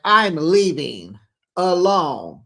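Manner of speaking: dramatic walkout line; slow huffy exit line. Retold or imitated. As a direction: draw it out like storming off. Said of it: "Stacey's like".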